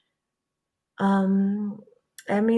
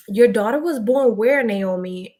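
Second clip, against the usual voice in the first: eager question; 7 dB louder than usual. Real, not acted. Asking Naomi in the chat where her daughter was born, eagerly. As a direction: toss the question out brightly.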